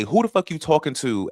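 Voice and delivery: put-on New York accent, high and a little loud; rough New York accent. Streamer acting out their upset self from a video, rough New York accent. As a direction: snap into a touch of New York attitude. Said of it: "really rough New York accent".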